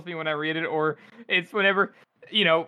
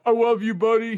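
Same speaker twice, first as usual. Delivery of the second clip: higher, hammed-up declaration of affection; mock gushing; 3 semitones higher, 4 dB louder than usual. Imagining what Friendly would never say, mock gushing. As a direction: overdo the affection in jest. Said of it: "He doesn't say, like".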